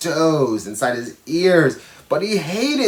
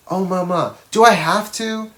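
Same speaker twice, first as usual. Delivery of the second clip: Carlos pleads, higher and whiny; whiny child; 5 semitones higher than usual. Acted. Boy begging his mama to skip the bath, high whine. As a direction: beg like a kid who hates baths.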